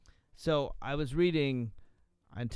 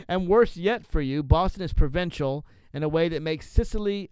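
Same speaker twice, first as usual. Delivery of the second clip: loud, higher reading easing down at the end; animated quote reading; 4 semitones higher, 7 dB louder than usual. Acted. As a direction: proudly declaim the boastful rant. Reads a blog post aloud.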